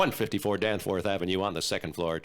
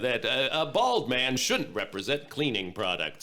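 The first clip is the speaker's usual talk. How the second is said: Mister Clean voice. Acted. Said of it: "I am Mister Clean".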